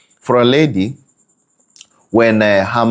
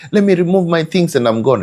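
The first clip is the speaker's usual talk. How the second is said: tag; 8 semitones higher, faster than usual. Retold or imitated. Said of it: "How do relationships end nowadays".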